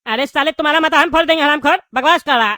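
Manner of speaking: loud, furious cursing shout; angry shout. Acted. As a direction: snap back hard at the insult. Prisoner cursing cellmate in anger.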